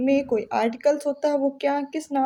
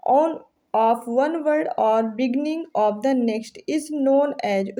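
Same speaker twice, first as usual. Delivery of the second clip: reads the quiz question out slowly and deliberately; slow question reading; much slower than usual. Acted. Teacher slowly reading a quiz question aloud. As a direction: dictate it word by word to students.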